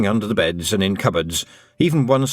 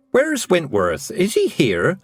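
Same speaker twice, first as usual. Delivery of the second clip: higher, pressing, anxious mother; urgent worry; 5 semitones higher than usual. Acted. Mother searching for her lost son, urgent and higher. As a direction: demand it with rising panic. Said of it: "asked urgently".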